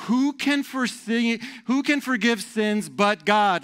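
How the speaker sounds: high, slow indignant cry; hammed-up indignation, each word drawn out; scandalized objection. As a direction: protest as an outraged religious teacher. Acts out scandalized teachers of law.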